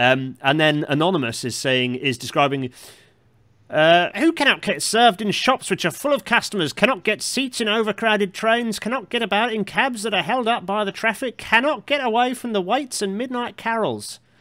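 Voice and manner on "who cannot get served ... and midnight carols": light Cockney lilt, pitched very high. Speaker reads aloud a 1906 passage by Anonymous, in a slight Cockney accent. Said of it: "given them a slightly Cockney accent".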